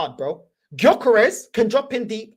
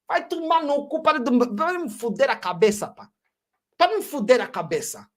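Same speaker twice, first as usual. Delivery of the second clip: Portuguese swearing; 3 semitones higher than usual. Real, not acted. Angry rant in Portuguese.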